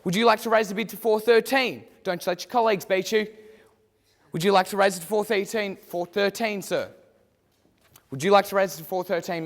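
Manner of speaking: brisk auctioneer patter working the room; auctioneer call. Acted. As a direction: drive the bidding like a real auctioneer. Mock auction, student calling bids.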